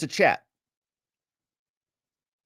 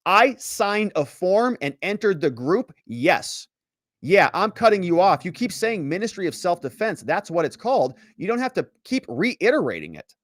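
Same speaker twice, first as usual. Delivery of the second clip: snapping back, a notch louder and higher; curt and irritated; 5 semitones higher, 3 dB louder than usual. Retold or imitated. Witness cutting off the prosecutor, curt and irritated. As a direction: cut the prosecutor off, fed up. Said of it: "Robbins is being very curt".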